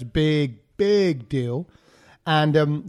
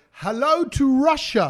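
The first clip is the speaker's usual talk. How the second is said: high, drawn-out shout-out; calling out a greeting; 7 semitones higher, slower than usual. Real, not acted. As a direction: stretch it out to faraway listeners. Greeting listeners in Russia.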